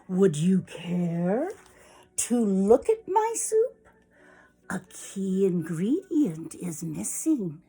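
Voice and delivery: slow, deliberate storybook villain; fox's luring request. Acted. Fox asking the hen to look at his soup, slow and luring. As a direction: lure with drawn-out politeness.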